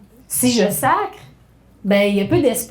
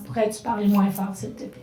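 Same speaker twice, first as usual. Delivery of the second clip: gently; 2 semitones lower, 5 dB quieter than usual. Shown as a demonstration. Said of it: "lui demander gentiment".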